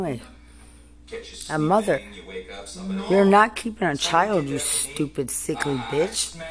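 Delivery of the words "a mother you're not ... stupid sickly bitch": angry shout. Real, not acted. Angry rant at officials.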